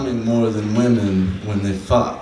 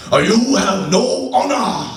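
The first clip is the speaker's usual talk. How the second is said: much higher, slow hammed-up East Asian accent; mock East Asian accent; 12 semitones higher, slower than usual. Comic voices a boyfriend's glare on the street, mock East Asian accent. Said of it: "that's exactly what it sounded like".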